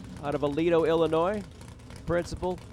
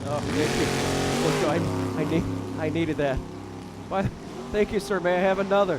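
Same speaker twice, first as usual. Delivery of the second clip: loud, eager pledge begging for more; Kevin Bacon impression; 3 dB louder than usual. Announcer does his Kevin Bacon line for the crowd, louder. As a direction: ham up a grateful frat pledge taking a paddle hit. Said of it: "That's my Kevin Bacon impression".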